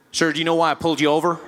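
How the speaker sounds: formal American traffic-cop voice; lightly voiced US police officer; American policeman. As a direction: question a driver as an American cop. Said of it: "Policeman walked up to my window".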